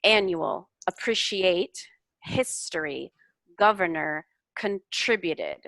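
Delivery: careful stress on each word; annual, appreciate, history, governor, contributed with clear stress; word stress demo. Shown as a demonstration. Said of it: "where the stress goes on those words".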